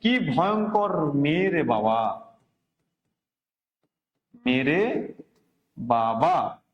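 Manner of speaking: drawn-out, amazed কি ভয়ঙ্কর; mock astonishment. Shown as a demonstration. Teacher demonstrates an exclamation to students, slow and amazed. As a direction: stretch it out like you can't believe it. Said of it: "বলছে কি".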